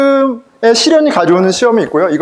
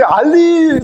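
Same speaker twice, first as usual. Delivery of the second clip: high, drawn-out mock barista call; calling out a name; 9 semitones higher, much slower than usual. Barista calls for the coffee's owner, imitated call-out. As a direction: stretch the name out high and slow. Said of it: "이름을 부르잖아요".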